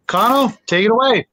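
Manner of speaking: ordinary talk, nothing marked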